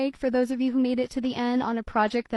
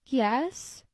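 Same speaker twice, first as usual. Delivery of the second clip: squeak. Acted. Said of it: "squeaks Kitty".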